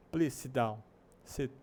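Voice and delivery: "sit" with a brief lax i; short vowel. Shown as a demonstration. Teacher's example sentence, short i in "sit". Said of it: "só que ele é mais curto".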